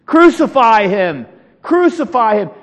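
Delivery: mock mob cry, punched first syllable; crowd crying out. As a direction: call it out like a crowd demanding death. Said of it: "They cry out again".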